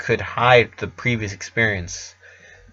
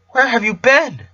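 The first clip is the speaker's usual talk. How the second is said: high, anxious question; worried; 12 semitones higher than usual. A narrator's reading. Designer to Rara, worried and high. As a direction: ask with real worry.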